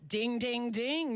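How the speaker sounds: mock game-show bell, rising on the dings; light game-show host announcing a right answer; quiz-show bell. Host to player after a right quiz answer, playful quiz-show bell.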